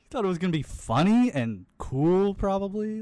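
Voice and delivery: high, laughing through the words. Real, not acted. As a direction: tease while still laughing. Laughing while teasing friend.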